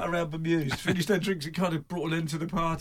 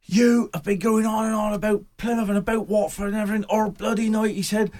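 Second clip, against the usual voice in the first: angry fan; 5 semitones higher, 6 dB louder than usual. Retold or imitated. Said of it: "went white as a sheet and said".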